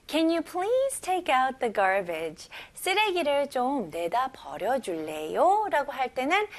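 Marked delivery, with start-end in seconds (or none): 0.1-2.5 slow, careful English model reading; slow model sentence. Shown as a demonstration. Teacher reading the example sentence slowly. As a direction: read it out slowly for learners to copy. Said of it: "첫 번째 문장 볼게요".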